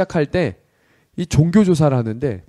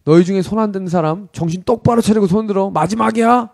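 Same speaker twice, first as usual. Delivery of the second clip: a touch of irritated military command; lightly acted stern last warning; mildly angry commander; 2 semitones higher, 3 dB louder than usual. Commander to recruits who kept hands down, mildly angry. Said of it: "중대장이 약간 화가 났어요".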